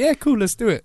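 high, bright happy-go-lucky voice; chirpy yoga girl. Retold or imitated. Mimicking the happy-go-lucky yoga instructor, pitched high. Girl's cheerful reply voiced.

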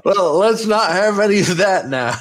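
plain, not in character, laughing; plain own voice. Acted. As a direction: says it in her own voice. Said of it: "Definitely not your character voice".

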